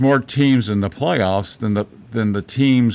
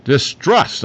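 "Distrust" said louder and higher, each sound crisp; clearly enunciated; 4 semitones higher, 3 dB louder than usual. Shown as a demonstration. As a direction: spell out "Distrust" clearly through the mask. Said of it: "I hope it's coming clear enough there".

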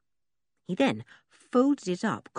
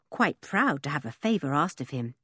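plain reading voice

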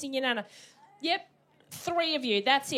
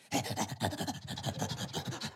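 dog face noise; 9 dB quieter than usual. Shown as a demonstration. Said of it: "It looks like this".

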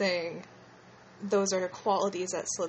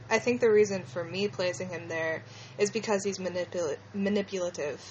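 slushy lisped s sounds; s sounds come out with a lisp. Real, not acted. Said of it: "excuse my lisp".

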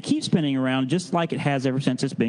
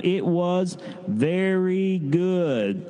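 very slow, stretched-out unison line; leading a group response; 4 semitones higher, much slower than usual. Shown as a demonstration. Leader asking kids to say it together, very slow. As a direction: draw every word out so kids can join in. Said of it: "say with me one last time".

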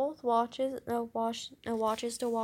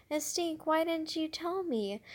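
pitched-up dismay; high upset question; 5 semitones higher than usual. Acted. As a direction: sister upset at brother for not telling, high upset voice. Judy upset with brother.

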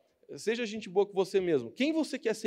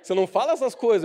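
normal talking voice

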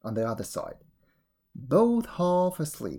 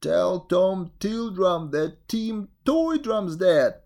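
squeaky voice; 3 dB louder, slower than usual. Acted. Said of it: "said to me with a squeaky voice".

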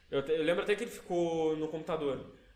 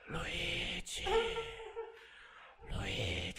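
ghostly whisper; 7 dB quieter, much slower than usual. Retold or imitated. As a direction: whisper like a spirit. Ghost voice heard in sleep paralysis.

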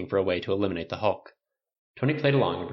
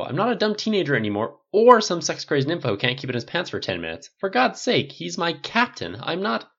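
higher, louder heated tirade; a raised, upset rant; indignant rant; 7 semitones higher, 5 dB louder than usual. Acted. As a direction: defend yourself hotly to a teasing friend.

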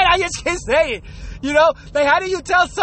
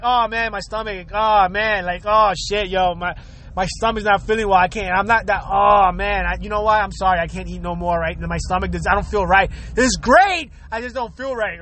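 fake stomachache excuse; 6 semitones lower than usual. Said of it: "I'll pretend like".

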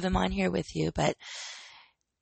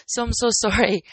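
laughing apology; 5 dB louder than usual. Real, not acted. Apologizing after a yawn slipped out.

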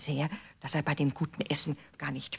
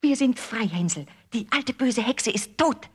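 higher, louder happy cry; joyful girl; 7 semitones higher, 5 dB louder than usual. A narrator's reading. Gretel telling Hänsel they are free, joyful call. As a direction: shout the good news with joy.

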